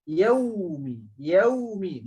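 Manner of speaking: yaumi, lips pushed out on the w; rounded lips. Shown as a demonstration. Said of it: "muncungkan mulut".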